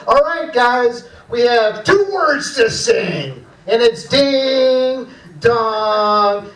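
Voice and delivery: slow, patient choir teacher; drawn out for a class of kids. Retold or imitated. Choir teacher coaching kids, slow and patient. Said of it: "the choir teacher's like".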